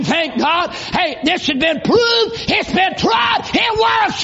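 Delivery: preaching at full force. Acted. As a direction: hammer it home like a revival preacher, climbing. Preacher building to a shout.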